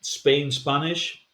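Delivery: Spain Spanish said slowly, as a model. Shown as a demonstration. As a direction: say Spain Spanish slow and clear. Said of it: "this is the way you should pronounce it".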